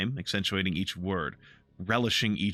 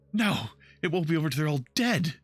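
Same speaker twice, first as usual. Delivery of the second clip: put-on haunted young elf; 8 semitones higher, 3 dB louder than usual. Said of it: "She shudders".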